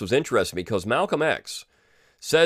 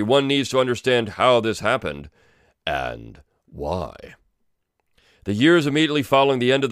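dramatic script read. Acted. Reads the video script aloud.

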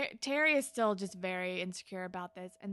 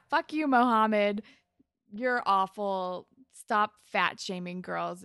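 angry outburst; 5 dB louder, slower than usual. Real, not acted. Cursing out the bully character.

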